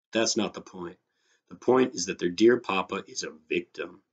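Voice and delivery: animated short-story reading with voiced dialogue; story narration. A narrator's reading. Teacher reads a story to students, expressive narration. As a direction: read it out expressively, acting the dialogue lightly.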